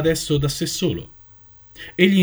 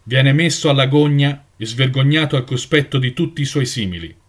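a hint of a grave judge passing sentence; solemn proclamation; 3 dB louder than usual. Elder sentences Jonathan before the assembly, grave and solemn. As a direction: pronounce the sentence for all to hear. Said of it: "l'anziano proclamò".

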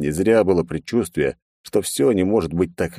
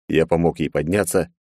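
normal talking voice

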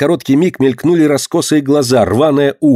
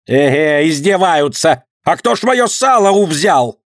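booming vendor shout; 5 semitones higher than usual. A narrator's reading. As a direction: yell it hands on hips. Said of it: "зычно кричала торговка".

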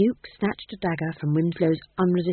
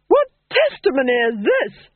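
cold duchess; 6 semitones higher, 8 dB louder than usual. Acted. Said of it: "said the Duchess".

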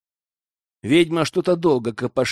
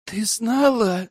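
high rasping gasp, spitting out water; hoarse croak; 8 semitones higher, slower than usual. Acted. Hero in the witch's body croaks at her, hoarse and higher. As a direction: croak it out, still retching. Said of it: "прохрипел я".

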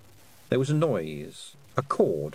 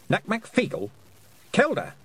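demanding; 10 semitones higher than usual. Acted. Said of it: "she demanded".

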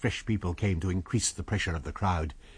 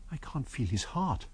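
hushed dread; 2 semitones higher, 8 dB quieter than usual. A narrator's reading. Kemp checking the body.

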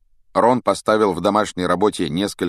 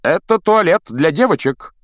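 louder words pushed through clenched teeth; through gritted teeth; 10 semitones higher, 7 dB louder than usual. A narrator's reading. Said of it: "процедил он сквозь зубы".

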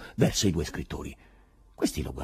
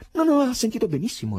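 courteous; 5 dB louder, faster than usual. A narrator's reading. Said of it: "rispose con cortesia Berlioz".

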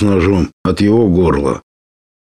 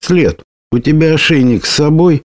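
the bird's voice shifts higher in alarm; changed voice; 8 semitones higher than usual. A narrator's reading. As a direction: voice suddenly pitched higher and tense. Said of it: "изменившимся голосом спросила птица".

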